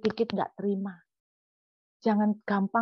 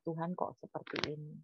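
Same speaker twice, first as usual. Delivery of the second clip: humble heartfelt prayer; 5 dB quieter than usual. Pretend. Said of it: "kalau kita mau curhat".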